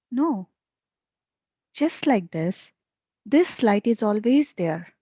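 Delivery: emphatic reading of questions and answers; deliberate dialogue reading with firm stresses; spiritual dialogue read aloud. A narrator's reading. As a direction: read the teaching out in short, stressed phrases. Reads disciple and master dialogue.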